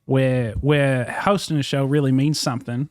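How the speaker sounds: put-on Aussie accent, held steady; Australian accent. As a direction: fake Australian accent in character. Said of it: "continued the Australian accent for two hours".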